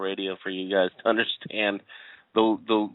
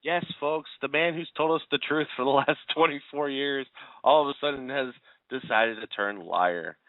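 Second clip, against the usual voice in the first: higher-pitched mock-proclaiming to the listeners; tongue-in-cheek radio proclamation; mock announcement; 4 semitones higher than usual. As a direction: announce it with sarcastic showmanship, slowing toward the end. Mock announcement of shocking news.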